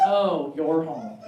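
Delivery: slow, low, unimpressed drawl; an aloof cat greeting its owner; bored cat. Retold or imitated. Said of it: "You're like".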